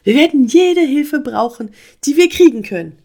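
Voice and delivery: high, loud agitated frog; rally help with urgency; drängend. A narrator's reading. Frog urges help against flood. (aufgeregt und laut zur Eile drängen)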